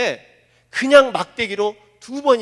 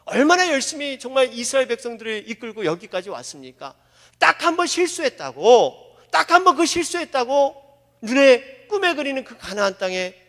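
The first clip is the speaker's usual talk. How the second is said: pleading Moses. Acted. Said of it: "모세 편에서 생각해 보면요".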